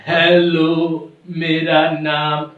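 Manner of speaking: very slow, evenly spaced robotic greeting; stilted, drawn-out robot monotone. Acted. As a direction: recite it like a programmed machine. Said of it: "robo कहने लगता है".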